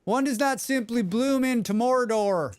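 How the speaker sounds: high-pitched Southern British attempt; Southern British accent. Streamer redoes the film line, unsure, high British accent. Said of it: "that's British, right? Southern British?".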